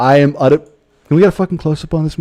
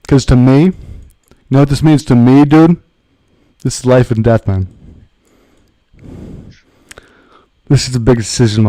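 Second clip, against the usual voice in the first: louder, hammed-up indignation; mock-dramatic rant; 5 dB louder than usual. Streamer mock-scolding an imagined critic, hammed-up loud rant. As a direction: ham up the life-or-death stakes.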